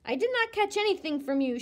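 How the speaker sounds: fast, high indignant retort; indignant shout. A narrator's reading. Girl denying she caught it, indignant shout. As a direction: snap it back in a hurry. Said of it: "Sheila shouted".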